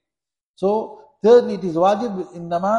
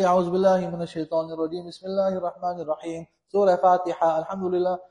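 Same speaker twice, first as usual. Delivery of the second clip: imitating youngsters reciting by rote; mock rote prayer recital; children's rote recitation. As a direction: run it together on one level note, like a maktab pupil. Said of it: "Like some youngsters, they learn in maktab".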